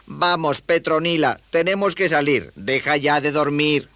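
put-on high, boyish wake-up call; high-voiced youngster urging; rousing a sleepy friend. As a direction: chivvy a friend out of bed. Palitroque wakes his sleeping spider.

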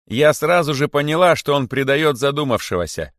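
high, loud accusation; monkey's shout. A narrator's reading. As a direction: shout it indignantly to the crowd. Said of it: "закричала мартышка". (обличающий крик мартышки)

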